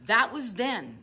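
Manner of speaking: a sharp "uh-uh, that was then"; firm refusal. Shown as a demonstration. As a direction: shut the voice down firmly. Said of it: "you have to be able to say to yourself".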